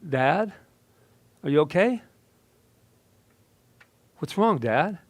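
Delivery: fearful. Acted. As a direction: ask through fearful tears. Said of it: "With tears of fear in my eyes, I mumbled".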